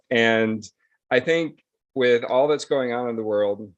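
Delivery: normal talking voice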